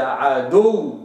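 عدو with the doubled waw and no lip rounding; waw without lip rounding. Shown as a demonstration. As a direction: say عدو with the lips unrounded. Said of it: "نقرأها كذا".

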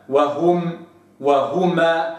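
وهم and وهما with a clear waw on the pronoun; correct demo. Shown as a demonstration. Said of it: "هكذا".

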